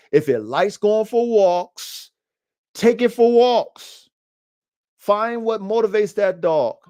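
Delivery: emphatic coaching. Acted.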